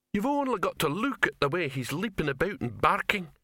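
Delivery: a troll pointing it out. Acted. Troll explains the dog's barking, eager troll voice.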